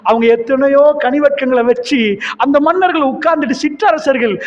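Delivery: a mock sobbing lament to his leader; Umar, weeping, pleads with the Prophet in a high anguished voice; pleading through tears. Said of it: "தேம்பி தேம்பி துடிச்சு அழுதுட்டு கேட்கிற".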